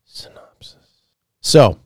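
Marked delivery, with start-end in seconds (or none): 0.0-0.8 breathless whisper of Synopsis; just breathe the word back; whispered echo. Real, not acted. Echoing the co-host's word as a whisper.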